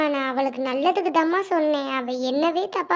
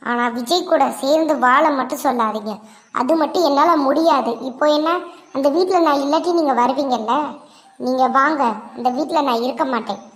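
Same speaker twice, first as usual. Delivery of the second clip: heated defiance; 4 dB louder than usual. Acted. Heated reply refusing Vijay.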